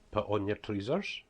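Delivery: slow broad Scots, "trousers" as "treezers"; broad Scottish dialect. Shown as a demonstration. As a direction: test them with strong Scottish dialect, slowly. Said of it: "See if you can get that".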